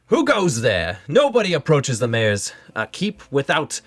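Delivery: lightly voiced guard issuing a challenge; elvish guard. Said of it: "they speak to you once again".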